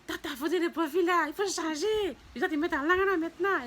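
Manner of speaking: loud, high scolding call; people scolding her. Retold or imitated. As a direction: call her out loudly from afar. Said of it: "ils me disent".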